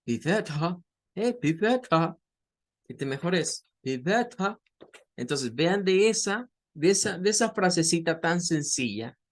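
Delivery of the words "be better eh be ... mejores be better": British "be better" with schwa ending, no R; London "be better", R dropped; British accent. Shown as a demonstration. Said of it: "lo va a decir como". (acento británico, be better sin R final)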